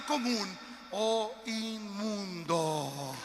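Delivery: slow tearful outcry; preacher crying out the verse, very slow; crying shout. Real, not acted. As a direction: let the words break into a cry. Preacher's emotional climax.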